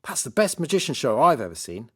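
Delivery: put-on excited boy. Boy raves about the show.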